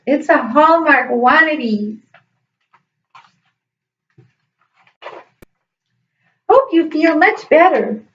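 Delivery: measured, heartfelt letter reading; reading letters aloud. Acted. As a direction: read each note out slowly, stressing key words. Reads students' letters aloud.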